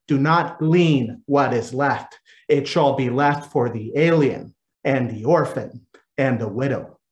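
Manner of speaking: solemn scripture read. Acted. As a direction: read it like a lesson from the pulpit. Priest reads scripture aloud.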